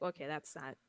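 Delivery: hushed unvoiced verdict; whispered judgment. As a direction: whisper it, slow and disapproving. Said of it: "I'm like".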